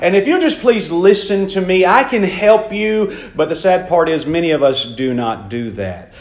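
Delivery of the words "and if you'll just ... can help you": earnest pleading plea. Retold or imitated. God begging his children, an earnest plea. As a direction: beg them to finally listen. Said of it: "God is begging his people".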